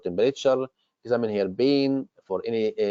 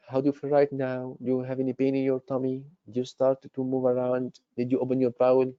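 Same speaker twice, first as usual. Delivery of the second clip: gentler tone. Shown as a demonstration. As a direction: ask about her recovery gently, with concern. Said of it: "Change the tone of your voice".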